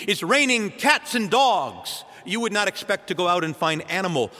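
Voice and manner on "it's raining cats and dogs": casual idiom. Shown as a demonstration. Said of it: "if I were to say to you".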